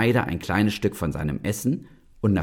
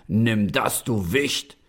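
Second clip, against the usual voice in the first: gloating giant; slower than usual. Acted. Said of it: "rief er lachend".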